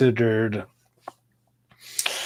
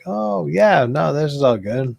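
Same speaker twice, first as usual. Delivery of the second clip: imitating his high, careless younger self; mock carefree reply; 6 semitones higher, 5 dB louder than usual. Retelling his stoned self to friends, high and breezy. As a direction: toss it off like nothing's wrong, pitched up.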